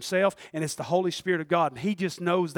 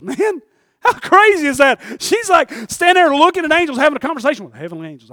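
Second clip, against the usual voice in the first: loud, high preaching in amazement; incredulous shouting; 9 semitones higher, 13 dB louder than usual. Real, not acted. Preacher marvels to the church at a woman turning from angels, incredulous shouting. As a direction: shout it high, astonished, at full force.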